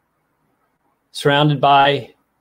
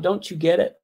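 crying out; 4 semitones higher than usual. Retold or imitated. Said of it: "perhaps God himself wanted to cry out".

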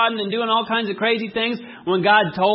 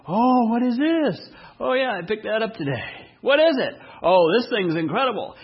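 higher, mildly excited mock family chatter; 4 semitones higher than usual. Family gathers round the new purchase, mildly excited.

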